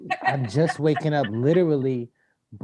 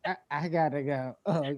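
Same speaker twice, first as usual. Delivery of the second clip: softer, hurried, stifling a laugh; quiet rushed exit; 7 dB quieter, faster than usual. Retold or imitated. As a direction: slip away quietly.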